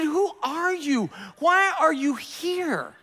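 slow, high, laughing disbelief. Retold or imitated. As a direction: stretch each word through a laugh. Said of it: "I mean, can you understand?".

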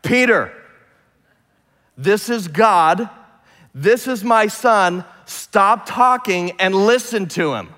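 slow, emphatic, acted voice of God; God's stern command. God speaks up to silence babbling Peter, slow and commanding. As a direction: play God cutting in with measured authority. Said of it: "I'm gonna speak to this guy".

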